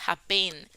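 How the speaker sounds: "happen" stressed on its last syllable; wrong stress. Shown as a demonstration. Teacher repeating what we don't say, wrong stress on "happen". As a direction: put the weight on the "-pen" of "happen". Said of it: "No decimos happen".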